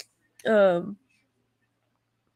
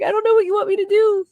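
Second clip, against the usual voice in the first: mean dentist; 12 semitones higher, 5 dB louder, faster than usual. Retold or imitated. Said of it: "She's like".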